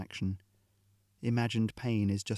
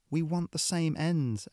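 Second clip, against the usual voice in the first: sad; 7 semitones higher, slower than usual. A narrator's reading. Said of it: "Ariadne said sadly".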